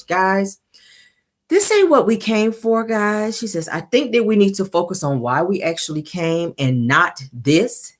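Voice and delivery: imitated peaceful voice, slightly high and even; lightly put-on calm, patient appeal; Melody. Melody telling the girls to refocus, mock peaceful voice. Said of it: "her real peaceful voice".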